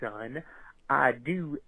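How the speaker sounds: cowboy drawl. Acted. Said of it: "speaks like a cowboy".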